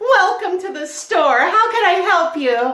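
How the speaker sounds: creepy fake-cheerful voice, very high. Showing what they say when told to smile more, creepy customer-service voice. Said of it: "mainly to creep people out".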